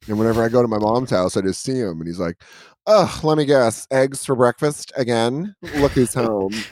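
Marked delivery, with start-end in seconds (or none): 2.9-6.5 put-on sassy old dog. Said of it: "sassy gay man".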